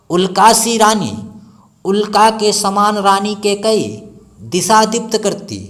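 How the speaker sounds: a teacher declaiming the blazing queen; ringing declamation. Shown as a demonstration. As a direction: ring it out like a proclamation. Declaims verse strongly.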